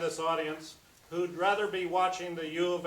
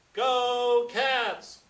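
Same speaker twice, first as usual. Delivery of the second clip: higher, louder cheer of a rowdy fan; mock yell; 7 semitones higher, 8 dB louder than usual. The obese adolescent yelling at the game, a mock cheer. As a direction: belt it out like a kid in the stands. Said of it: "He eats hot dogs and yells".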